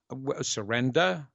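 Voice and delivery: New York accent. Shown as a demonstration. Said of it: "That's my New York accent".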